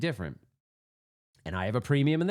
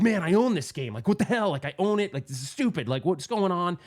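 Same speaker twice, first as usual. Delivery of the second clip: higher-pitched retold rant; agitated ranting; 3 semitones higher than usual. Player retelling his rant beside a younger kid, agitated. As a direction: vent in disbelief, mildly hammed up. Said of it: "But I'm talking like this. Not my normal way".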